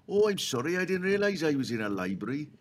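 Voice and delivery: mock-polite apology. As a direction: apologise politely, imitating a sheepish shouter. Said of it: "And he was very polite".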